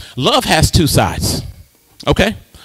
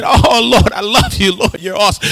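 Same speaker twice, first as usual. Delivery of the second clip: mock weeping worship; 4 semitones higher than usual. Preacher imitating congregation weeping before the Lord, mock tearful. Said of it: "some of y'all was weeping".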